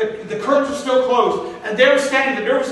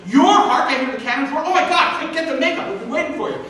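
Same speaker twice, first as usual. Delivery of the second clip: grab him, we're out of time; relieved, urgent stage manager; 4 semitones higher than usual. Retold or imitated.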